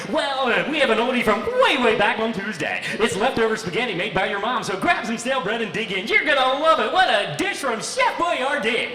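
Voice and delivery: high, loud radio announcer patter; full-time DJ dad. Retold or imitated. DJ dad answering kid's dinner question in hyped announcer voice. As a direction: announce dinner like a song intro. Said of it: "living with a full-time D J".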